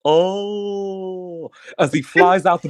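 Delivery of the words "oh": mock scream. A narrator's reading. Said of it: "punctuated by a man's scream".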